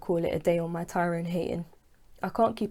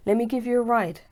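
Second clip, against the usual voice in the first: higher and louder, calling out over the rain; calling from car; 5 semitones higher, 5 dB louder than usual. Acted. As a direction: shout the offer through the car window.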